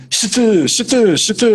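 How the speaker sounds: "situ" hissed s then t, repeated in separate tries; child sounding out. Retold or imitated. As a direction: imitate a new reader stuck on "situ". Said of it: "Depois ela fez assim".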